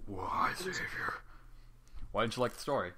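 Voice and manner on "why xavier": slow breathy whisper; mock whisper. Host mockingly asks Xavier why, slow whisper. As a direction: draw it out in a hushed whisper. Mock dramatic question to cohost.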